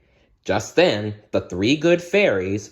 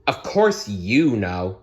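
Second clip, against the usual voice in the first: mild scolding; slower than usual. Acted. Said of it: "scolded Fauna".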